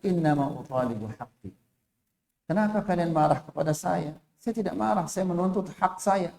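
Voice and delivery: soft, unbothered reply; calmly casual. Acted. Bedouin calmly answering the angry companions, unbothered and soft. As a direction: say it easily, no heat. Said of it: "dengan santai dia mengatakan".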